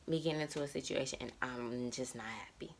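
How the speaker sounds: soft unvoiced whisper, the fear said under her breath; hushed anxious whisper. Real, not acted. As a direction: breathe the words out like a confession. Repeats the line as a whisper.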